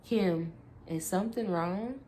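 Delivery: mock her with sweet concern; mocking feigned innocence. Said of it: "he mocked".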